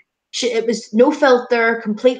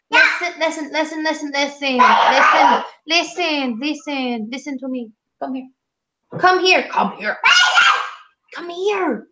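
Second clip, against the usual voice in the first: higher, coaxing repeated calls; calling dog over, higher coaxing; calling a pet; 5 semitones higher than usual. Real, not acted. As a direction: call the dog over, playful.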